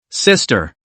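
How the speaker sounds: low, cold "sister.". Acted. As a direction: drop "sister." low and icy. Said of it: "Her gaze grew cold".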